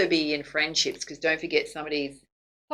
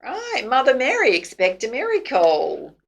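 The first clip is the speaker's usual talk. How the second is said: excited exclaim; 7 semitones higher, 4 dB louder than usual. Real, not acted. Tarot reader exclaims about miracle.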